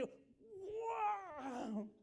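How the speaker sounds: high, drawn-out cry of wonder; wow cry. Shown as a demonstration. Rider on a roller coaster drop, high amazed cry. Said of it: "El grito no es de".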